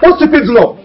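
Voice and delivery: loud rapid string of no; frantic denial. Acted. Man rejecting the girlfriend's claim, loud frantic denial. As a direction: wave it all away, refusing.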